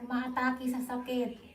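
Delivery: talking through swollen, sore cheeks. Real, not acted. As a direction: speak with braces pressing cheeks. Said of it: "laki ng mukha ko ngayon, namamaga". (namamagang pisngi)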